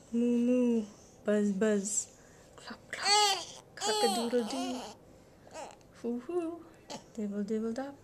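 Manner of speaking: lively sound review. Acted.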